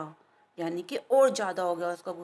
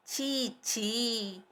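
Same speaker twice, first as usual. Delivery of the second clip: quiet disapproving tsk; soft tut-tut; 6 dB quieter, much slower than usual. Acted. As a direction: click it softly, mildly disgusted. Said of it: "मक्खी ने धीरे से कहा". (धीरे से छी छी, हल्की नाराज़गी)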